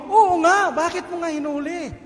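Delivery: angrier commander scolding. Retold or imitated.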